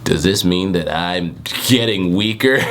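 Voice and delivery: only lightly voiced, slow question; a hint of an old sage; plain-ish Jiraiya voice. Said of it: "he's Jiraiya, right?".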